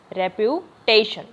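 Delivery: रेप्यूटेशन slowly, split before a stressed टे; slow teaching रेप्यूटेशन, leaning on टे; stress on TAY. Shown as a demonstration. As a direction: break रेप्यूटेशन into रेप्यू, then टेशन. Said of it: "वो टे पे ही आता है।".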